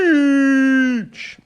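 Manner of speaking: high, loud mock child scream; kid screaming. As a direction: yell it like a panicked kid on the beach. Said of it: "screaming at the top of their lungs".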